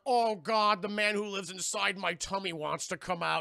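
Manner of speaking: loud, hammed-up groaning complaint; play-acted dread, starting loud; mock distress. Larry as the spirit pushes out of him, mock distress.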